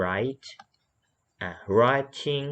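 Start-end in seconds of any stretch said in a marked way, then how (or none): 0.0-0.5 "write" with a long, lip-rounded r; rounded initial R. Shown as a demonstration. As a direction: pucker slightly and draw out the r in "write". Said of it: "หอปากนิดนึง".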